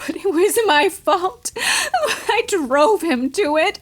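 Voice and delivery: sobbing guilt. Acted.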